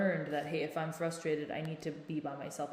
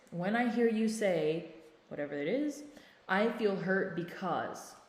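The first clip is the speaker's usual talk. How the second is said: calm nonviolent phrasing; 2 semitones higher than usual. Shown as a demonstration. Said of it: "If we're talking N V C, then it's".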